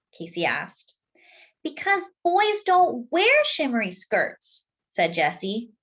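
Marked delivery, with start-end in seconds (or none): 1.6-4.7 high, slow, matter-of-fact; know-it-all sister. Acted. Sister tells brother the rule, high and slow. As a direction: explain it like an obvious rule.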